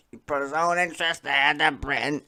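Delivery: lightly voiced mock politician; mocking parrot. Streamer mimicking the politician he just heard, lightly mocking. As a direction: echo the line back with a sneer.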